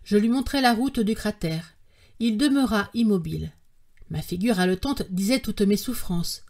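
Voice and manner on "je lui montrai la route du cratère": ordinary delivery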